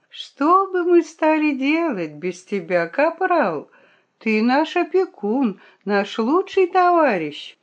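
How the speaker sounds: effusive, high-pitched flattery; lavish grateful praise on your protector; gushing gratitude. A narrator's reading. The sly fox thanks the rooster for food, gushing.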